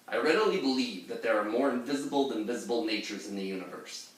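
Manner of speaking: a light, quick, effeminate future robot. Acted. Pirate rereads the epigraph as a fast, lightly voiced effeminate robot. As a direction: rattle it off like a dainty robot from the future. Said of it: "with my impression voice".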